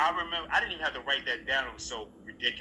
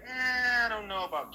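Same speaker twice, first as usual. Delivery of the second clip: doubtful; 11 semitones higher than usual. Retold or imitated. Actor recalling doubts about his scripted line, high and doubtful. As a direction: balk at it in a higher voice.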